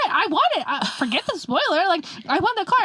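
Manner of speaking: put-on high, whiny teenage want; whiny plea. A teen begging her dad to just buy it, whiny. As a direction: beg like a kid for the car.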